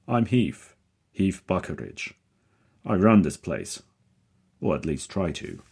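loud, hearty booming man. A narrator's reading. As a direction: project it like a showman. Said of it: "He speaks with a deep, booming voice".

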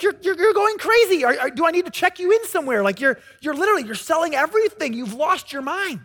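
worried disbelief. Retold or imitated. Friends think he's gone mad.

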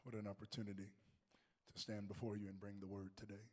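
raspy, worn-out voice; hoarse voice. Real, not acted. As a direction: voice gone from coaching. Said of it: "Forgive the Hoarseness of My Voice".

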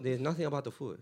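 put-on joking Asian-accented reply. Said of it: "that's not a racist accent".

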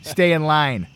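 lightly voiced fifties greaser tough guy; a hint of a cocky greaser. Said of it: "I made him sound like a greaser".

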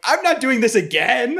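mock panic. Own panicked reply, retold.

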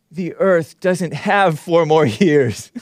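slow, sneering sign reading; mocking the protest sign slowly. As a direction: read it out like a joke.

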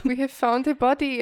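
put-on mild German accent; a hint of a German hiker; mock German accent. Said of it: "sorry to all my German listeners".

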